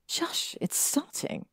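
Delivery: whispered shush, lips close; hushing whisper. Acted. Hermione hushing the room as the film starts, whispered. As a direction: hush them before the film begins.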